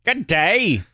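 mock English accent. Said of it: "But they still".

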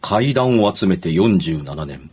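slow, solemn spooky intro; ghost story telling. Acted. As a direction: announce slowly and ominously.

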